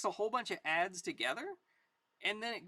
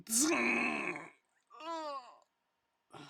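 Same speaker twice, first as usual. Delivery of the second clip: bullet and groan; 5 semitones higher than usual. Acted. Pappy hit by a sniper mid-sentence, zing and groan. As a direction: imitate a shot, then groan. Shot cuts character off.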